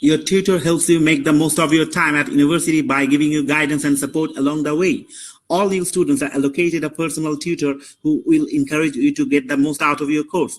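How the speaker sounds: steady, even read-aloud of the passage; read-aloud demo. Shown as a demonstration. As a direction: read straight through without pausing. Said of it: "এখানে দেখেন আপনারা শুনেন".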